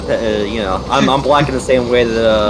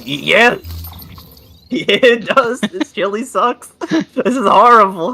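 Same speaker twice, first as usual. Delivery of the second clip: laughing agreement; 8 semitones higher, slower than usual. Retold or imitated. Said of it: "I'm like".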